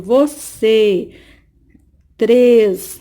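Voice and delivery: você and três sounded out with a closed, stressed ê. Shown as a demonstration. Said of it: "dá um sentido fechado na palavra".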